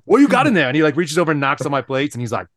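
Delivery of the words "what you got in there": mock Chinese accent, high and loud; Lou. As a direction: punch out the question in a put-on Chinese accent. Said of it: "he has the thickest Chinese accent".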